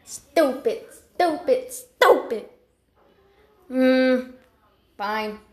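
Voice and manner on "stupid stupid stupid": self-scolding. Acted. Scolds self for repeating own name.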